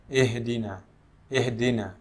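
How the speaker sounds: ihdina bent toward ehdina; wrong ihdina sounding like ehdina; imala mistake. Shown as a demonstration. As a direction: say ihdina with the i leaning to e. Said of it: "sering diimalahkan".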